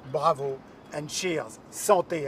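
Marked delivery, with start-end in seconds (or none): 1.7-2.3 Santé said the French way, san-TAY, no English t; toasting in French, Santé with a French vowel and final stress; French toast word. Shown as a demonstration. Paris CEO toasting Meredith, Santé said in French. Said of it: "as we say".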